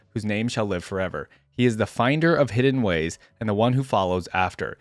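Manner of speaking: measured, solemn first-person narration; dramatic story reading. A narrator's reading. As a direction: read it like a weary lone warrior's grave account. Reads first-person story aloud.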